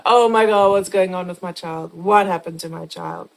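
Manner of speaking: loud panicked cry; frantic owner shouting; retold frantic scream. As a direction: yell after the dog in a panic. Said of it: "screaming for him".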